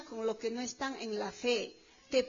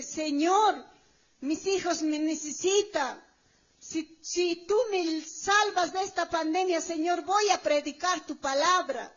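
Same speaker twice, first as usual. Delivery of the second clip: raised, imploring prayer; retold plea; 3 semitones higher, 4 dB louder than usual. Preacher retelling own pandemic prayer to God, pleading. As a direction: re-enact a bargain with God, mildly raised. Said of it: "Yo dije".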